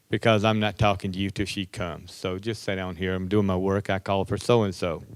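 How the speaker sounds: calm the room down gently. Retold or imitated. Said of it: "take things very calmly".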